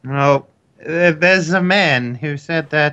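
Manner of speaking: hesitant admission in a mock woman's voice; put-on woman voice. Student confesses to Katya about a man, put-on woman voice. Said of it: "I need to get into my woman accent".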